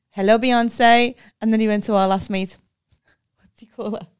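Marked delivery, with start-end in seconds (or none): 0.1-1.2 hammed-up seller's hello; a slow, loud mock greeting; slow drawn-out greeting. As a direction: stretch it out slowly, louder.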